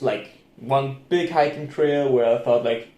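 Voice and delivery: usual speaking voice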